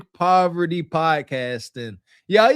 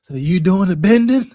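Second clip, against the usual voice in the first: movie quote; 2 semitones lower, 6 dB louder than usual. Retold or imitated. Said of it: "Shout out to a singer, that wicked movie".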